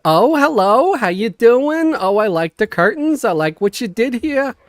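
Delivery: a chatty neighbor in a hammed-up New York Jewish accent, stretching the greeting; Queens Jewish accent. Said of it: "an accent that I would hear in the more Jewish neighborhood was more like".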